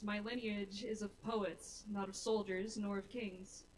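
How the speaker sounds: rhythmic recitation, each phrase easing down at the end; spoken-word poem. Acted. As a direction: introduce yourself in measured, deliberate verse. Recites own poem on stage.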